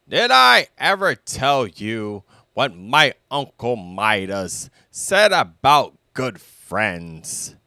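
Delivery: Al voice. Acted. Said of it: "Al cleared his throat".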